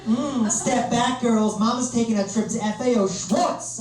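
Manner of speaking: slow, high, stretched-out American drawl; sassy mock woman on the prowl, words dragged out; lustful girl. Girl spotting him across a bar, hammed-up slow lust. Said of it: "is like".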